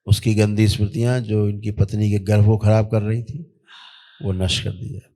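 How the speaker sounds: steady, level ritual decree; ritual incantation. Real, not acted. Healer commanding spirits on a patient's behalf, intoned ritual. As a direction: intone evenly like a healing command.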